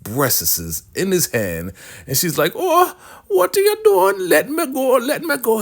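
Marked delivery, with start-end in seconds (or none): 2.6-5.6 high-pitched comic squeal of alarm; hammed-up panic, pitched way up; mock alarmed protest. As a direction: act out a shrieking, scandalized woman. Acted woman fighting off a grab.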